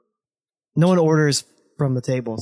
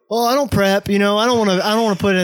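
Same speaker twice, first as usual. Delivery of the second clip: mocking imitation; 5 semitones higher, 3 dB louder than usual. Mockingly quotes co-host back at him.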